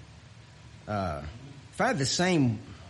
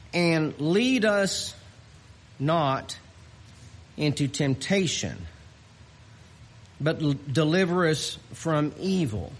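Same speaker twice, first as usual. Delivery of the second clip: scripture reading; 3 semitones higher than usual. Acted. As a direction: read the verse with reverence. Reads scripture slowly.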